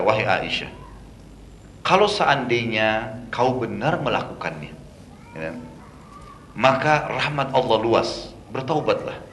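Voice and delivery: slow, soft, patient advice; gentle counsel. Retold or imitated. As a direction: lay the words down gently like a caring husband. Prophet gently counsels Aisyah. (menasihati dengan lembut dan pelan)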